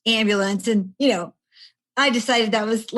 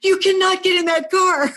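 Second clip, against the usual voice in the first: firm warning; 10 semitones higher, 6 dB louder than usual. Retold or imitated. Paramedics forbidding driving.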